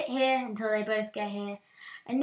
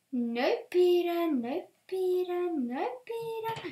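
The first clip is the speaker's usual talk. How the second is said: higher with each slow plea; rising panic; 7 semitones higher, slower than usual. Acted. Begging the escaping pig Peter, voice climbing in panic.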